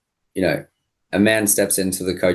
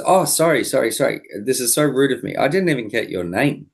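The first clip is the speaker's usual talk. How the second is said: apologetic coach; 5 semitones higher than usual. Retold or imitated. Coach's flustered apology acted in story.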